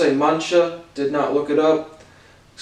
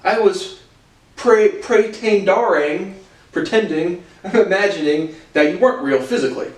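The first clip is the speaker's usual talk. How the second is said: mock high, slightly slowed confused voice; mock literal listener; 5 semitones higher than usual. Teacher mocking a listener who takes real literally, high mock voice. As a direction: play a baffled literal-minded listener, pitched up. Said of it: "no one's sitting there like".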